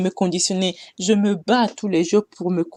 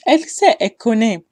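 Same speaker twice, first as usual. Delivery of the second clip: sarcastic; 4 semitones higher, 6 dB louder than usual. Retold or imitated. Sarcastic repeat of mother's claims.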